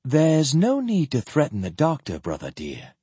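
lightly voiced, smooth reassurance; composed sister.

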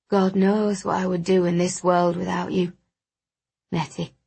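a hint of a stoic man softening; even, slightly monotone affection; lightly voiced grateful friend. Wounded friend thanking his healer, lightly voiced and fond.

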